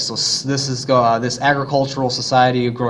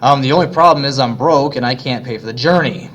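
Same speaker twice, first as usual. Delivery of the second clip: eager poor man; 2 semitones higher, 4 dB louder than usual. Retold or imitated. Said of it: "he says".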